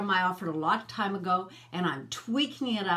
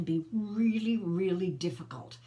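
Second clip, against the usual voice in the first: whispered emphasis. Real, not acted. Stressing hard conversations.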